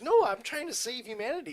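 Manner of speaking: insistent protest. Retold or imitated. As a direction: refuse the accusation with force. Heated argument over releasing virus.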